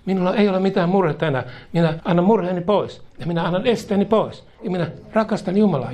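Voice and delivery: rising fervour. Acted. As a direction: proclaim it with growing conviction.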